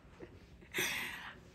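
breathy tipsy giggle; giggling laugh. Real, not acted.

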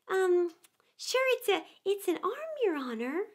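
very high Irish lilt; easygoing Irish gardener answering his master; Irish gardener answering the rabbit; Irish servant. A narrator's reading.

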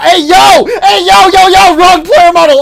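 panicked yelling. Real, not acted. Panicked at wrong player model.

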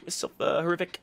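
very high, loud sneering mock voice; hammed-up taunt in a mocking voice; mocking impression. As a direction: mimic the smug opponent again. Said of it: "This one, it's like".

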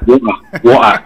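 "wɔ a" said with the t dropped, like "wo-a"; Brummie water. Shown as a demonstration. Explaining Brummie speech to a friend, "wɔ a" without its t. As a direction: swallow the t in "wɔ a", Brummie style. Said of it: "Tii no ɛmba, ɛno no yɛ Bromi".

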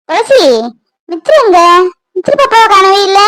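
high anxious calling out; worried calling. Acted. Grandmother searching for the missing baby, worried calling.

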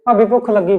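brother-in-law calling out loud to his sister-in-law for food. Acted. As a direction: call her from the next room.

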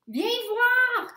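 high, loud call to a friend. A narrator's reading. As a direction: call her over, excited. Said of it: "crie Stella".

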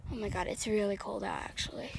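muttered under the breath; muttering. Real, not acted. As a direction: mutter it to yourself. Cold outside, muttered then shouted.

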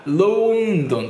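ロンドン with the first vowel stretched round; British rounded O. Shown as a demonstration. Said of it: "オーって音を丸く出すんですよね". (「ロンドン」のオを丸く伸ばして)

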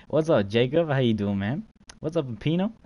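loud upbeat hello; excited greeting. Real, not acted. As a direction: greet friends with energy. Excited greetings to joining players.

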